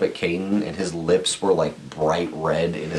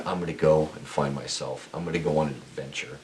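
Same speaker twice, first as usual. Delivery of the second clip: soft, lower voice trailing down; retold inner thought; 3 semitones lower, 6 dB quieter than usual. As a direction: recount a private resolve quietly. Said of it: "I remember thinking".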